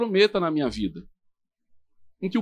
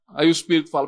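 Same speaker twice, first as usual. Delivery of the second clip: ordinary delivery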